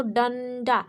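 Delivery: डंडा with a full, held N before the ड; clear N sound. Shown as a demonstration. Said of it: "एन आ रहा था, उच्चारित होता". (डंडा में न् का साफ़ उच्चारण)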